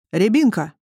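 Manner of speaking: mild hail to someone; calling out. A narrator's reading. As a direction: call the nickname out, not too loudly. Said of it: "окликнул Ухаб". (окликая)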